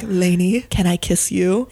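lightly voiced leading man; romantic male voice. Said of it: "I'm really playing this out with the voices".

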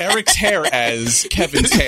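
laughing it out loud and slow; a slow, loud laugh through the words. Real, not acted. Joking echo about the hair.

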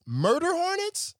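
high, drawn-out disbelieving squeak; incredulous squeak. Real, not acted. Mocking the bee scientist.

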